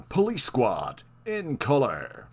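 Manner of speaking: slow announcer-style read of the title; mock TV narrator, drawn out. Narrator introducing the show, slow announcer voice. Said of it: "they'd have a narrator going".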